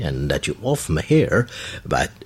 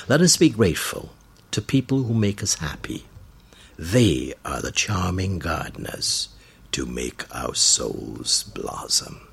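reading a quote. Shown as a demonstration. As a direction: read it out in phrases, pausing between them. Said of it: "Let's close with this quote".

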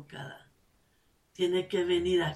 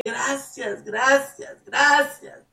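grateful thanks; 5 semitones higher, 6 dB louder, slower than usual. Retold or imitated. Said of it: "o decirle".

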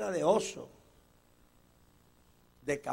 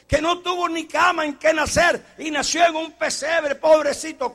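imitating sentimental churchgoers, louder; mock pity; 9 semitones higher, 9 dB louder than usual. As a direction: mimic people pitying Jesus. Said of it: "la gente que dice".

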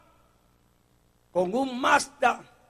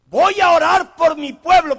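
mock pious; 6 semitones higher, 11 dB louder than usual. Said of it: "quieren imitar a Daniel".

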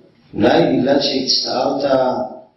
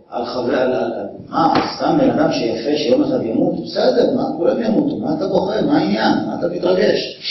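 dismissive scoffing; 2 semitones higher than usual. Pretend. Imagined dismissive reaction continues.

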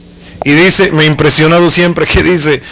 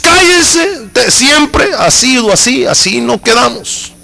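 angry shout; 6 semitones higher, slower than usual. Acted. Husband silencing pleading wife.

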